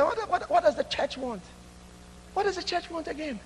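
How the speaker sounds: high, grumbling mock complaint; a hint of an annoyed member; mock stingy churchgoer. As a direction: sneer like a grudging giver.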